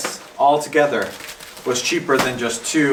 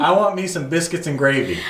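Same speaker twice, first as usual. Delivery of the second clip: higher-pitched Southern accent demo; 4 semitones higher than usual. Shown as a demonstration. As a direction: model folksy Southern English for a learner. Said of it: "say some phrases in Southern".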